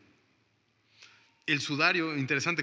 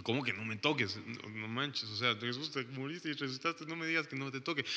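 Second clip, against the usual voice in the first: protesta incrédula; 3 semitones lower, 7 dB quieter than usual. Retold or imitated. Her own imagined protest to Jesus.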